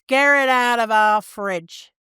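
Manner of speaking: slow, mild Northern British take on the slogan; repeating the advert's catchphrase in a light Northern voice; mock Northern accent catchphrase. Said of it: "That's the catchphrase".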